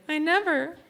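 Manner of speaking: high indignant mom; imitating her protesting mom. Comic's mom denying she dropped the phone.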